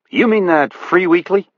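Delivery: a hint of a meeker man's voice; Buddy's voice. A narrator's reading. Buddy answers McCaleb, higher voice.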